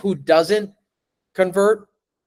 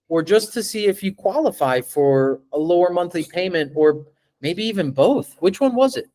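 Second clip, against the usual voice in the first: curious tone; 2 semitones higher than usual. Shown as a demonstration. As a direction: sound like you care about the answer. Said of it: "Listen to my tone".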